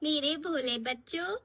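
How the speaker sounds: butter up the students; fake-sweet teacher; syrupy sweet. Strict teacher suddenly sweet.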